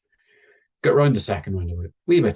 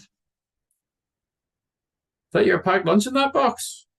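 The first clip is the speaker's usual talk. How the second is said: high, curious prying tone; high nosy question; 13 semitones higher than usual. Retold or imitated. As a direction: lift the voice way up, all curiosity. Asking the stranger.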